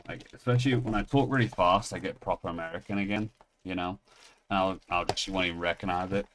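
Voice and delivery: talking in a really American accent. Shown as a demonstration. Vlogger showing off switching accents, American accent. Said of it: "that was really American".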